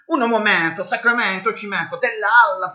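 high, loud fake Italian patter; mock Italian. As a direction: ham up a made-up Italian chant. Mock Italian chant after instructions.

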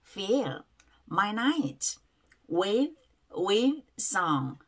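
"Fill" with a clear lip-teeth f; F sound. Shown as a demonstration. Teacher drilling the F in fill, quietly. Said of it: "F 발음이에요".

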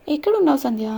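calling out loud for his lost love; shouting her name in anguish; anguished cry. A narrator's reading. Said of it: "అంటూ అరుస్తాడు".

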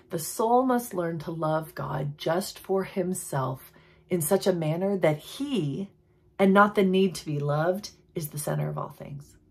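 slow, solemn reading of the quote; slow reverent quote reading. Shown as a demonstration. Preacher reading a loved quote to viewers, slow and solemn. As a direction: read each word like a treasure. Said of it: "This comes from John H. Coe".

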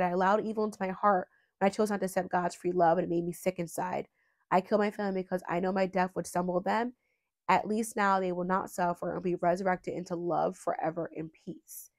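flat, detached read-through; dry reading. Acted. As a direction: read it out plainly, holding feeling back. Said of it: "dry as I was reading it".

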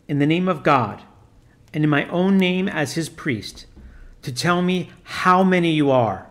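a lightly voiced priest commanding solemnly; stern priest. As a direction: intone it like an exorcist giving orders. Priest addresses the demon.

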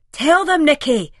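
beseeching. A narrator's reading. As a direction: beg her to back him up. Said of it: "Simon beseeches me".

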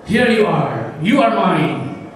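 drawn-out declaration of ownership; boy claiming his toy. Acted. Boy holding his bought-back boat, possessively. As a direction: savour each word as it falls. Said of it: "sabi nila, sabi nila".

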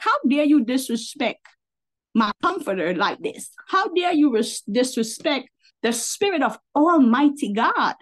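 retold indignant rebuke, stretched emphasis; righteous indignation. Retelling a rebuke to someone disrespecting Holy Spirit, righteously indignant. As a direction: take mild offence on God's behalf. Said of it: "Just indignation. That's exactly what it was".

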